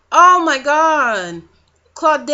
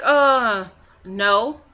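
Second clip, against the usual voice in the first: chipper no; 2 semitones lower than usual. Retold or imitated. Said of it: "she said it in such a chipper voice".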